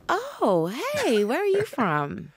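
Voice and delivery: high-pitched mock friendly surprise; pleasantly surprised officer. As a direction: imitate an officer suddenly turning friendly. Police officers' reply, retold.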